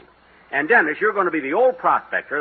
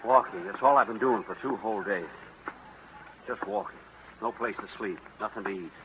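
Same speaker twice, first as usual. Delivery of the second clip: weary hungry bum; 7 semitones lower than usual. Acted. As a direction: drag the words out, exhausted. Jack plays a starving bum.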